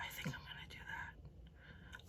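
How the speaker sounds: slow, very soft whisper; breath-only whispering, drawn out slowly; ASMR whisper. Shown as a demonstration. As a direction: try out a hushed ASMR voice. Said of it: "I'm not even gonna whisper".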